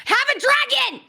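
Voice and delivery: high, excited exclamation; emphatic excitement. Real, not acted. Fan answering the host's "why?", gleeful high-pitched insistence. Same answer repeated with gusto.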